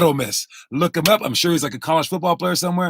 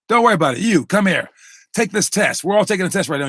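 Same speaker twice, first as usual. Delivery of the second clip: imitated teacher; 4 semitones higher, faster than usual. Acts a teacher ordering a test.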